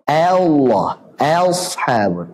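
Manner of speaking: "Allah" with A pushed toward E; "Ashabul" over-thinned toward E; wrong imalah. Shown as a demonstration. (imalah yang salah)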